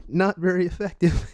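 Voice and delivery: high, loud mock battle-narrator voice; Pokemon game announcer. Comedian mocks the date's move as a Pokemon attack, high game-announcer voice. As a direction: call the move like a cartoon game.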